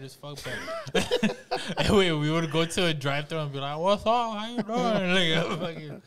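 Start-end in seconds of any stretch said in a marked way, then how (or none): 3.8-5.1 mock Scarface. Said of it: "I used to talk like".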